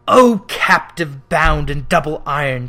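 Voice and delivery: loud mournful cry; wailing phantom. Acted. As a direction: wail it like a tormented spirit. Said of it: "cried the phantom".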